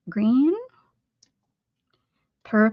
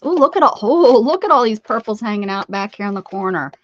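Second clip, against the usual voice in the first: Purple Janet; 7 dB louder than usual. Acted. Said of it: "Purple Janet says".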